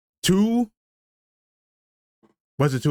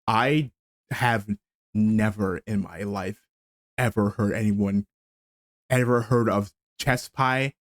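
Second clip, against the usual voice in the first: slow, drawn out with long pauses between words; slow dramatic buildup with pauses; slower than usual. Shown as a demonstration. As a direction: hang on each word for effect. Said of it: "I did a dramatic pause".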